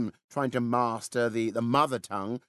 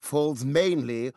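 slow, deliberate British model sentence; British accent; much slower than usual. Shown as a demonstration. Brit gives Canadians a sentence to mimic, slow British accent. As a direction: draw out each word in careful British English. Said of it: "let's hear a sentence".

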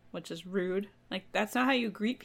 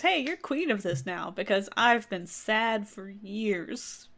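brooding sad ram; slower than usual. Acted. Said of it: "Oh, time for a sad off".

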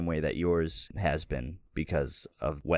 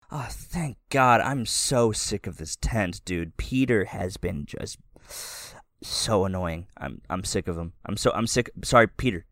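happy relief. Acted. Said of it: "she finally gets happy and she goes".

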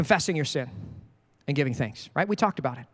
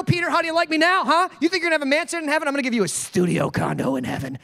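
lightly voiced mock revenge; vengeful Jesus parody; 5 semitones higher than usual. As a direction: play a petty vengeful risen Jesus. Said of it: "been like".

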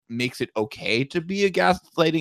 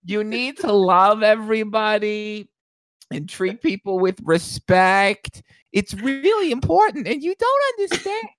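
Jewish mother voice; 6 semitones higher than usual. Pretend. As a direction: lecture like a doting Jewish mother. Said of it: "my Jewish voice".

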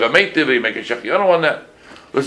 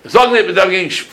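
put-on higher, louder old-world Yiddish lecture; imitating a Yiddish-speaking elder; Yiddish-speaking rosh yeshiva; 8 semitones higher, 5 dB louder than usual. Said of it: "Then he says to me".

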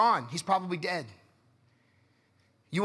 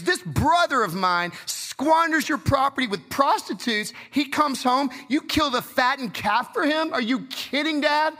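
put-on resentful older brother; 5 semitones higher, 3 dB louder than usual. Angry older brother confronts father.

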